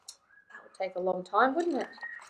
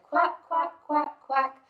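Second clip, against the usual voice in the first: high, louder quacks; mother duck quacking; 5 semitones higher, 4 dB louder than usual. Acted. Mother duck calling her ducklings, high quacking. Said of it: "Mother duck said".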